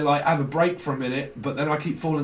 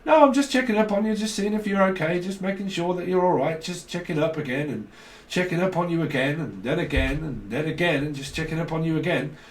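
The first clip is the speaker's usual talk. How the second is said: phoning parent; 2 semitones higher than usual. Acted. Mother keeps phoning the kids to check up, mock fussing voice. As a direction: imitate a repetitive check-in, trailing on and on. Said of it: "Keeps, like, phoning their kids or children".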